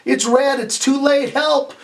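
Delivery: rising, panicky little cry for help; a touch of hammed-up panic; mock alarm. Meter reading acted out.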